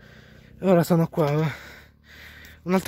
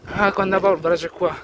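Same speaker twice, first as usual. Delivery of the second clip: muffled behind a dust mask; through a face mask; 3 dB louder, slower than usual. Real, not acted. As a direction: speak through a mask on a dusty road. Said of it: "meno male che c'ho la mascherina ora".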